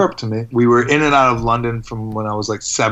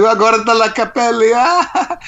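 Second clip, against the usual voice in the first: high, jeering Italian schoolkid taunt; mock the new kid's hair, sing-song and high; taunting playground voice in Italian; 10 semitones higher, 4 dB louder, slower than usual. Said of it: "He's like".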